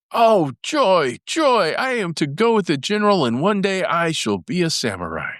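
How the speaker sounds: put-on high, joyful cry of a boy; excited boy's exclamation. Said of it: "he exclaimed".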